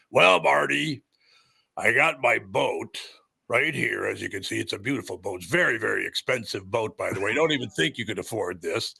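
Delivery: lightly voiced wrestler boasting about his gear; Crusher. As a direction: show off like a hammy wrestler. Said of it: "guys that talk like this".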